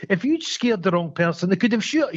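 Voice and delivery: lightly acted needling complaint; passive-aggressive. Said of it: "it's so passive aggressive".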